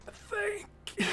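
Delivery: faint, breathy whispered thanks; soft whisper, barely getting it out. Acted. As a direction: whisper it as a dying character's last words. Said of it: "you hear her just whisper".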